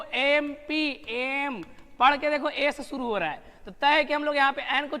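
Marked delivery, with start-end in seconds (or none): 0.0-1.0 "एम पी" drawn out slowly, letter by letter; letter names spelled out. Shown as a demonstration. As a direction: say "एम पी" slowly so the E sound is heard. ("एम पी" को धीरे-धीरे अक्षर-अक्षर बोलना)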